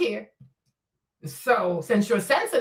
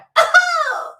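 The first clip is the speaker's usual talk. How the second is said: loud high cackle of triumph; high shrieking laugh; 7 dB louder than usual. Real, not acted. Streamer shrieks with laughter after her comeback.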